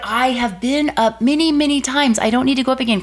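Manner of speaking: high, protesting retort; indignant, high-pitched protest; exasperated refusal. Retold or imitated. Exasperated wife refuses husband's urging.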